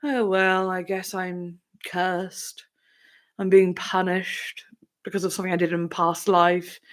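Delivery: slow, mock-somber resignation. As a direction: sigh out a cursed fate, hammed-up.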